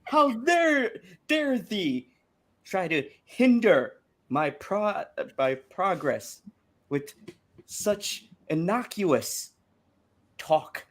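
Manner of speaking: put-on hammy slow Old English accent; mock old-timey Old English accent; bad Old English accent. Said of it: "the worst Old English accent".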